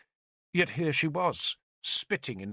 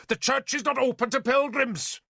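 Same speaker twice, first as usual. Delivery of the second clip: high, sharp snap at the pilgrim; snapping bishop; 12 semitones higher than usual. Acted. Bishop snaps at a pilgrim to leave, sharp and high. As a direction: bite the words off at the intruder. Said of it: "the bishop snapped".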